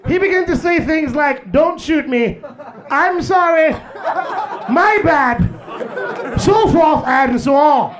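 stuffy white narrator studying wildlife; white documentary narrator. Retold or imitated. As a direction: narrate like a nature show host. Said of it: "The white guy be like".

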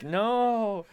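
high sudden yelled refusal; shouting no. Retold or imitated. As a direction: shout it, appalled. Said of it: "they were like".

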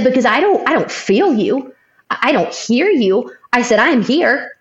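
wife recalling crying out to God alone in the hall; retold pleading anger. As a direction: plead with God in a frustrated rush. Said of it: "talking to him like I would Josh if I was angry".

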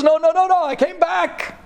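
high, pleading insistence; a lightly voiced Choni pleading with the students; pleading old man. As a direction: beg them to believe you. Choni insists nobody believes.

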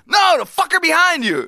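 high, loud crazed yell; screaming neighbor. Retold or imitated. Crazy neighbor yelling past the passerby at nobody, screaming. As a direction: holler it like a ranting madman. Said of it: "This guy's just screaming at his window".

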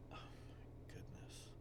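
breathy whispered disbelief; exasperated whisper. Real, not acted. Driver muttering at the roadworks, whispered exasperation. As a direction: let it slip out under your breath, fed up. Stuck in road construction, exasperated.

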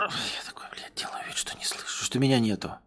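hushed whisper. Acted. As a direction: whisper while hiding. Hiding, pretending not to hear.

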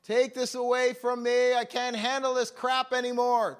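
loud, high desperate plea to God; crying out. Retold or imitated. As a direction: beg loudly at the top of the voice. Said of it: "He cries out to Jesus".

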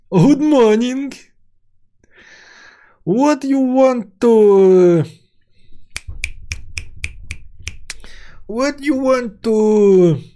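high, slow, loud broken English; fawning waiter struggling with English. Acted. Waiter tries English on Frenchman.

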